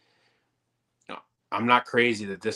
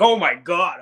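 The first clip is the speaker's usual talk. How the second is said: high, loud overwhelmed gasp of a parent; exasperated parent; 8 semitones higher, 8 dB louder, slower than usual. Retold or imitated. A parent swamped by toddler tantrums, loud and exasperated. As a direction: blurt it like tantrums just hit everywhere.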